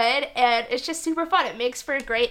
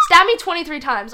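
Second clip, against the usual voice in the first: loud, higher, through laughter; laughing; 5 semitones higher, 9 dB louder than usual. Real, not acted. Joking about dying like Caesar, laughing. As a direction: crack up while saying it.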